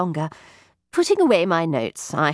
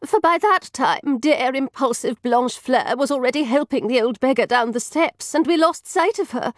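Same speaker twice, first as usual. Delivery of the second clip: tag; 5 semitones higher than usual. Acted. Taffeta continues the account.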